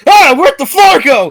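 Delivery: high giddy laughing question. Acted. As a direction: laugh in dazed wonder. Character tripping on a potion.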